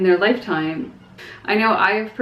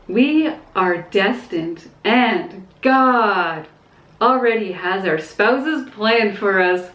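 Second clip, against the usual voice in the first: snarky, slowed paraphrase of a view she rejects; slower than usual. Real, not acted. Paraphrasing a religious commenter's view in a snarky tone. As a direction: drag it out with a dismissive edge. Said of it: "I'm sorry I sound snarky".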